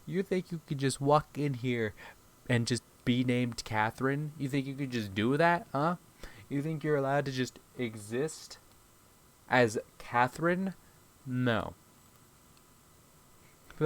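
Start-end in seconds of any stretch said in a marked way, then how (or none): 0.0-11.7 menacing. Retold or imitated. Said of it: "I'm like".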